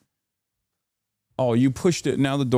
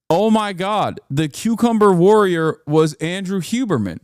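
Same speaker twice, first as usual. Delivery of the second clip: amazed realisation; 7 semitones higher, 3 dB louder than usual. Retold or imitated. Recognising the celebrity.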